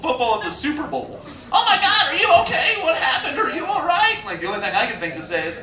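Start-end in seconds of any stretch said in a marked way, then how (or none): 1.5-4.2 high, fussing crowd voices; a rush of worried strangers, high and breathless; worried bystanders. Retold or imitated. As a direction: gush over him like panicked onlookers. Crowd rushing to check on him.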